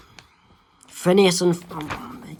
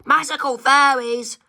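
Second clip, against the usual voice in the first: mock amazed; 7 semitones higher than usual. Kid amazed at fairies.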